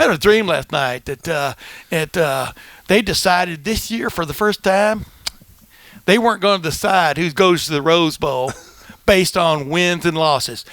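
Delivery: heavy lisp, every s in "last" and "losses" turned to th; storyteller with a thick lisp on "decided this year"; Lou Holtz impression. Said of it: "a lot of a lisp".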